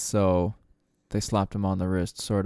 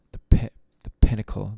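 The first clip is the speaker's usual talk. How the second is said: emphatic; 6 dB louder, faster than usual. Acted. Repeating a phrase for emphasis.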